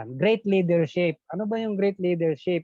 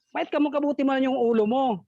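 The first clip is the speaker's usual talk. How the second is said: higher, teasing teacher; mock teacher teasing; 7 semitones higher than usual. Teacher mocking Juan, higher teasing. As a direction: tease the pupil's head. Teacher mocks Juan's answer.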